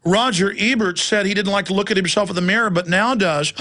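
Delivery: high, prissy mock voice, mostly slowed; hammed-up whiny nanny-state voice; mock nanny scold. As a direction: lampoon a fussy, pearl-clutching censor. Mocking the ninny nanny state.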